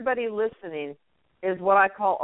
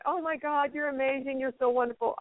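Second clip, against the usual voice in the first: mock-gushing fan praise, pitched higher; 6 semitones higher, 5 dB quieter than usual. Imitating fans gushing praise at Sheila, pitched higher. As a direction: play a fan raving over the host, voice lifted high. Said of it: "I get people saying".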